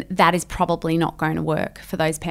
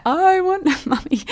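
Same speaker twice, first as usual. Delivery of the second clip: put-on wailing toddler; 11 semitones higher than usual. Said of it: "if they fall on the ground".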